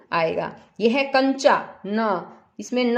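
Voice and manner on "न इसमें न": न pressed short like a half न; half n sound. Shown as a demonstration. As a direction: tap out the half न. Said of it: "आधा न की आवाज आ रही हो ना". (आधे न की आवाज़ दिखाएं)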